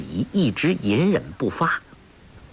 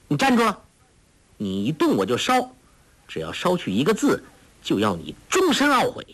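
commanding threat; 5 semitones higher, faster than usual. Acted. Girl threatening to burn scripture.

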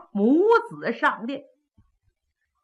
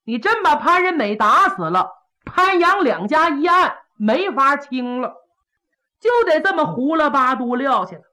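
louder, higher, pressing restraint; urgent plea; 5 semitones higher, 4 dB louder than usual. Acted. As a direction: hold the prince back in a hurry. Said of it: "寇准急忙拦呐".

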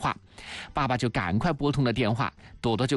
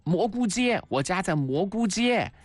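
high, lightly voiced child answering up; storyteller's gentle version of calling out; mildly loud declaration; 7 semitones higher than usual. A narrator's reading. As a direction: pitch it up like a child announcing an address. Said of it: "朵朵就大声地说".

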